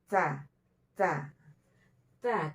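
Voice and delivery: "Ta, ta, ta" with breath escaping on the t; light, airy t in each "ta"; aspirated ta. Shown as a demonstration. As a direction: let a little air out after the t of "Ta". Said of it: "ada sifat hamesnya".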